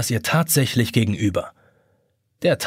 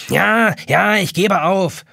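höher, leichthin hingesagt; 5 semitones higher, slower than usual. A narrator's reading. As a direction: gib beiläufig nach. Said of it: "erwidert die Taschenuhr leichthin". (Taschenuhr gibt leichthin auf)

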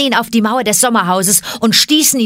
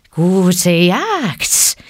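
a grim, flicking snake's goodbye; a touch of a grim python; grim snake farewell. A narrator's reading. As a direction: hiss it out grimly. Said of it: "züngelte K grimmig".

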